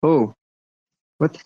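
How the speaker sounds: garbled robotic connection; glitchy underwater robot voice. Real, not acted. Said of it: "We're getting the underwater robot voice".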